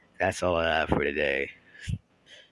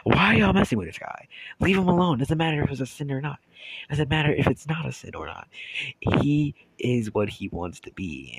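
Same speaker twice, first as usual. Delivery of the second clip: yelling at them; 8 semitones higher than usual. Retold or imitated. Defending the guy from the girls, yelling hard. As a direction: yell at them to back off. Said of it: "I'm steady yelling at them".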